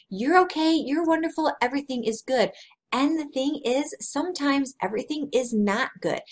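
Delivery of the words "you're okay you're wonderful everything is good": mock cheerful reassurance. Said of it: "We're saying".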